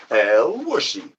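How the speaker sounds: slow drawn-out ring announcer call; announcer name call. Acted. Announcing the winner in a slow, ringing announcer voice. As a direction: stretch the name out like a fight announcer.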